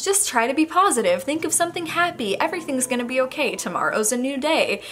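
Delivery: sing-song dismissive comforter; mock cheery advice. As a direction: parrot the cheerful platitudes lightly. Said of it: "it's not like".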